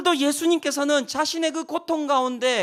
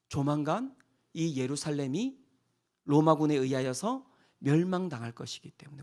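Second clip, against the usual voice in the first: hushed solemn whisper; 9 semitones lower, 6 dB quieter than usual. Acted. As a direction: drop to a whisper for the doom. Solemn prophecy of destruction.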